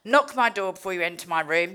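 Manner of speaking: loud, fast, entitled orders; bratty demands. Retold or imitated. To rehab staff on arrival, loud bratty demands. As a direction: rattle off demands like a brat. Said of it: "I was a fucking nightmare".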